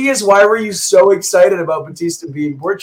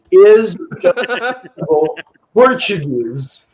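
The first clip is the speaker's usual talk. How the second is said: slow dramatic question; slower than usual. Pretend. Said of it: "we're Googling it".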